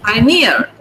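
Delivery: "Pioneer" stressed on the final NEER; clear stress. Shown as a demonstration. Teacher correcting students' "Pioneer", clear stress on NEER. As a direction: make NEER stand out in "Pioneer", falling. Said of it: "clear where the stress is".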